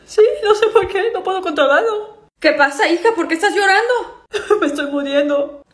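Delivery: sobbing through giggles, overwhelmed; laugh-crying. Acted.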